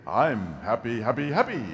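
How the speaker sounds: playful happy chant, lifting at the end; mock happy. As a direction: climb brighter through each happy. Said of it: "having a good day".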